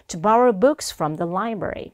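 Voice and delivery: slow, careful "To borrow books from the library"; pronunciation model. Shown as a demonstration. Teacher models the phrase after a breath pause, slow pronunciation model. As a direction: pronounce each word slowly for learners. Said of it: "발음해 주시면 됩니다".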